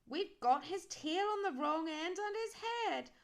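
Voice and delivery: high, loud and slow, puffing out a whew; a lightly voiced skeleton, worn out. A narrator's reading. Skeleton sighs over the mixed-up dog, loud and slow. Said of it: "said the dog skeleton".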